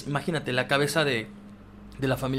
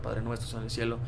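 retold prayer; 2 semitones lower, 6 dB quieter than usual. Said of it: "Mi mamá se ponía a rezar".

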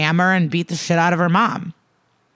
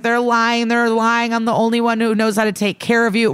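mock screaming and crying; 5 semitones higher than usual. Mother being taken away by tons of people, mock desperate plea. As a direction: act the desperate mother in a raised pitch. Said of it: "screaming and crying".

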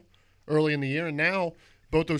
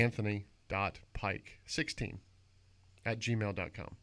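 slow, careful, every word spelled out; over enunciating; 5 semitones lower, 7 dB quieter, slower than usual. Shown as a demonstration. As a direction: dictate the email slowly, word by word. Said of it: "Say it one more time slowly".

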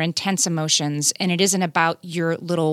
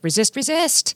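put-on resisting kid; 7 semitones higher than usual. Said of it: "which are making you be like".

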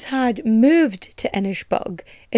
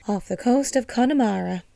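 a weak, bad try at an Irish accent, a bit softer; Irish lilt on Connemara, failing at it; attempted Irish accent; 5 dB quieter than usual. Shown as a demonstration. Host trying an Irish accent for the island's location, badly. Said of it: "That was a fucking atrocious accent".

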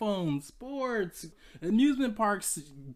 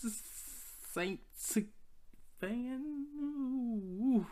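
choking on the word; 5 semitones higher, 8 dB quieter, much slower than usual. Retold or imitated. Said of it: "I can't even say that word".

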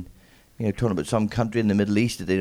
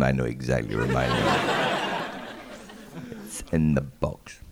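smug person; 9 semitones lower, 4 dB quieter than usual. Retold or imitated. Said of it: "smug people there going".

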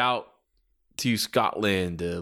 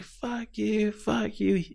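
acted angry retort; 10 semitones higher, 4 dB quieter, much slower than usual. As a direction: trade insults as the riled-up mom. Mom jawing back at heel.

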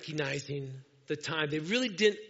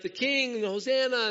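excited praising crowd; 7 semitones higher, 5 dB louder than usual. Retold or imitated. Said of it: "They're like".

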